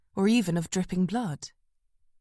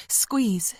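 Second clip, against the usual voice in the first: whisper; 3 semitones higher than usual. Acted. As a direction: breathe it close to him. Whispering to collapsed man.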